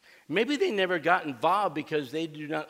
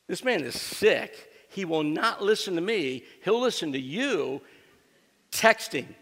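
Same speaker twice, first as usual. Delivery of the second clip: higher, louder mock-exasperated complaint; 4 semitones higher, 5 dB louder than usual. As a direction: act out a fed-up phone complaint, hitting each phrase. Retold wife's exasperated phone complaint.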